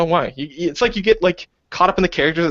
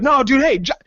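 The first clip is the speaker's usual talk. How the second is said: mock pleading; 9 semitones higher, slower than usual. Players pleading with drunk.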